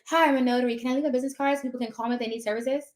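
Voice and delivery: rushed, businesslike and indifferent; cold pitch. Shown as a demonstration. Notary walking in cold to drop cards, rushed and flat. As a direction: rattle it off like a chore, fast. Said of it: "someone who just comes in cold".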